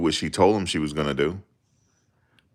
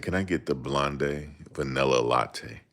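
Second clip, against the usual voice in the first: trying to sound bougie; 4 dB quieter than usual. Retold or imitated. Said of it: "they laugh at me 'cause of my voice".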